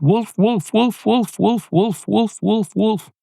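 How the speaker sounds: put-on very high kid's voice, frantic calls; child crying wolf. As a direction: squeal it like a panicky little boy. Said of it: "the kid went".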